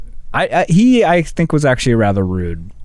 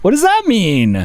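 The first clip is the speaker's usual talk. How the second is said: high, louder startled question; baffled; 12 semitones higher, 4 dB louder than usual. Retold or imitated. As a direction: blurt out your confusion, a bit louder. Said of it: "I was like".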